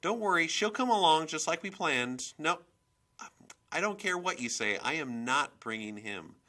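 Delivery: high, loud, insistent chatter; worked-up mother on the phone; agitated phone talk. A narrator's reading. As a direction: vent loudly to your boyfriend. Agitated phone call to boyfriend.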